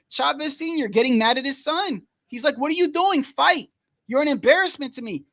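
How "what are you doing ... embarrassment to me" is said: higher-pitched mock yell of an angry father; imitated yelling. Boxer's father berating his son mid-fight, imitated yelling. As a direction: scold him in a raised, exasperated voice. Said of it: "He's yelling".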